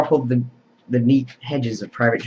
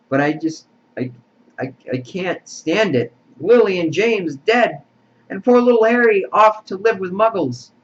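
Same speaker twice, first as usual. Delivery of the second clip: sobbing lament; 8 semitones higher, 4 dB louder than usual. A narrator's reading. Hagrid mourning Lily and James to McGonagall, wailing. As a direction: let the grief break into a high wail. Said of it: "sobbed Hagrid".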